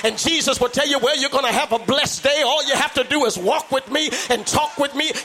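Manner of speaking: full-force preacher working the congregation; preaching at full force. Real, not acted. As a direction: preach it and lift the church.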